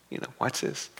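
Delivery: whispered "watch this". Shown as a demonstration. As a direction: breathe it without voice.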